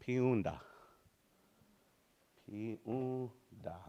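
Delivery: piunda with a nasal hum through it; nasal demo word. Shown as a demonstration. Teacher showing the class a nasal word. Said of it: "This is a very nasal sound".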